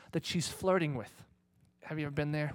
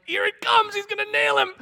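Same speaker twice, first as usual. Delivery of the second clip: much higher and louder, thrilled; eager anticipation; 11 dB louder than usual. Retold or imitated. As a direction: call it like a fan at a fight. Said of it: "I'm like".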